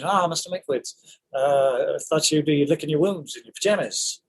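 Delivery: put-on a touch of old Hollywood Mid-Atlantic; Mid-Atlantic accent. The speaker retaking his line in Mid-Atlantic accent. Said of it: "he's doing the Mid-Atlantic".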